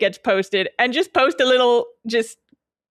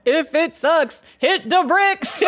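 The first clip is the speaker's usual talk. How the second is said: laughing; 6 semitones higher, slower than usual. Real, not acted. Co-host echoes, laughing.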